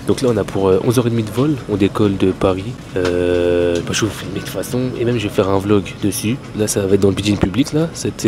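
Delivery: speaking up over engine noise; loud over plane noise. Real, not acted. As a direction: project over the cabin roar. Filming loudly inside the plane.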